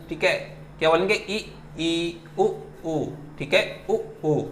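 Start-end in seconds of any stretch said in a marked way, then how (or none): 1.1-4.4 ई and उ slow and softer; vowel demo. Shown as a demonstration. Teacher repeats closed vowels ई, उ, slow and soft. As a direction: mouth ई then उ carefully. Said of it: "मेरे ये जो lips हैं इसको आप देख रहे हैं".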